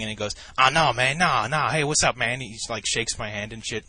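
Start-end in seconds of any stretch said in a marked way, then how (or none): 0.6-2.4 suddenly friendly. Retold or imitated. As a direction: imitate a sudden swing to chummy. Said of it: "he has this sudden mood swing".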